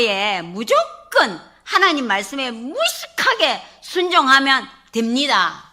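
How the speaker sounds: put-on childlike, laughing through it; simple childlike words with a laugh; the deaconess answers the pastor simply, laughing. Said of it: "어린아이처럼 말하는 거예요".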